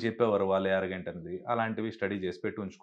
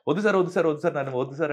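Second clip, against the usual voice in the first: higher, louder repeated pleading refusal; retold protest; 4 semitones higher, 5 dB louder, much faster than usual. Reluctant mimic refuses being pushed on stage, retold high protest. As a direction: beg off insistently, as in a retelling.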